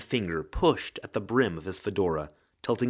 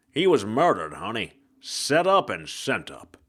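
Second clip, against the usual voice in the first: hard-boiled ghost. Acted. Ghost detective voice.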